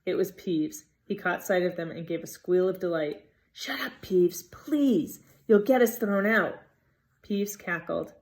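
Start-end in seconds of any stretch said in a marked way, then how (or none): 3.5-6.6 pleading. A narrator's reading. Pleading with Peeves.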